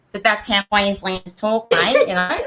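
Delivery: broad Australian twang; Aussie accent, matey and broad; Queensland twang. Pretend. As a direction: talk like a Queenslander. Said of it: "you're doing the twang".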